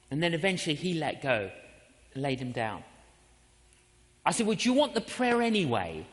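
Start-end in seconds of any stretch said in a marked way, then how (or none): 4.5-6.1 laughing offer. Retold or imitated.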